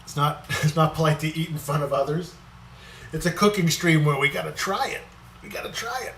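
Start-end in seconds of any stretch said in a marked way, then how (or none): 5.4-6.1 high, soft squeaky little voice; a playful cartoonish echo of the line; squeaky silly voice. Playful repeat while tasting.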